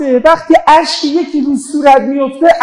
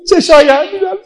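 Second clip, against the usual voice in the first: higher, tearful mourner's cry; tearful lament; 6 semitones higher, much faster than usual. Real, not acted. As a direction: let grief lift the voice at the end. Mourning eulogy, climax of tender scene.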